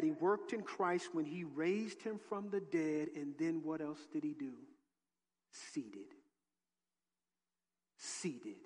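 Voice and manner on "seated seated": low, drawn-out seated; emphatic demo. Shown as a demonstration. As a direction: drop the word Seated low and slow. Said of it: "I'd tell you how to do like this".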